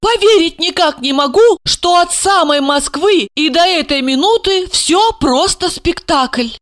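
put-on high, amazed young woman; amazed girl. Asya to Gorokhov, high and incredulous.

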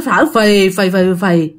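puffing breaths. Shown as a demonstration. Showing how the possessed child breathed, puffing. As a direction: imitate heavy puffing on "phì". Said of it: "nó tiếp tục nó thở phì phì".

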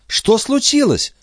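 mother's high, slow alarmed cry. A narrator's reading. Mother rushing to her calling son, alarmed. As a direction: cry out as the door flies open. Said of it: "вскричала Николь".

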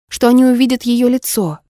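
ordinary delivery, nothing marked

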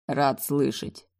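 slow, detached and unbothered; flat indifferent remark, slowly. A narrator's reading. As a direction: drop it coldly, as if it means nothing. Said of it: "безразлично констатировал он".

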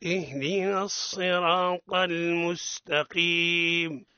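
slow, chanted tajweed reading; measured melodic recitation; Quran recitation. Acted. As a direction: recite slowly for pupils to repeat. Recites the sura line by line.

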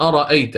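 أرأيت with the second hamza eased, not fully stopped; أرأيت read with tasheel; softened hamza. Shown as a demonstration. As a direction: ease the glottal stop in أرأيت. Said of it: "ستسهل الهمزة".

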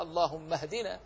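اللهم joined to اهدنا without the hamza; correct joining. Shown as a demonstration. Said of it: "لا، بل هو".

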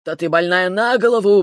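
a dragon growling at the foolish patient; growled anger. A narrator's reading. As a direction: growl it at her in fury. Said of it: "прорычал Ревел".

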